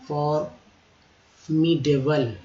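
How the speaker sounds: stretched out syllable by syllable; slow demo. Shown as a demonstration. Teacher to students, slow drawn-out model word. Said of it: "teacher drawls word slowly".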